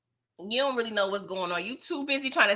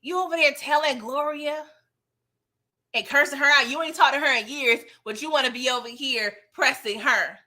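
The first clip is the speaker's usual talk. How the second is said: angry confrontation; 4 semitones higher than usual. Retold or imitated. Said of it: "And he's like".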